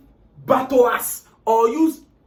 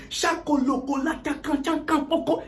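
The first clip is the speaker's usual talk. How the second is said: mock tongues prayer, higher-pitched babble; speaking in tongues; 4 semitones higher, 3 dB quieter than usual. Man praying in church, mock speaking in tongues. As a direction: rattle off nonsense syllables as if praying. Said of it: "dey speak in tongues".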